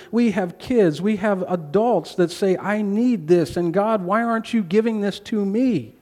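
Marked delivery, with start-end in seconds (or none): 2.6-5.9 raised-pitch plaintive demand, acted out; demanding complaint. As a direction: imitate someone complaining up at God. Kids and adults demanding from God.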